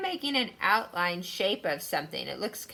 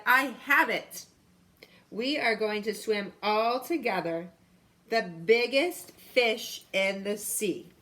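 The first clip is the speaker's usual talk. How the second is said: excited, louder realisation, slowing at the end; sudden idea; 3 semitones higher, 4 dB louder than usual. Acted. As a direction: announce the big plan proudly. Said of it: "suddenly he said".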